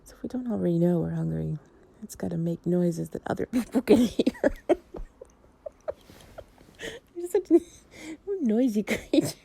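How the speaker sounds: giggling through the words; can't stop laughing as she talks; laughing while talking. Real, not acted. Joking with a partner about noisy stomachs, giggling.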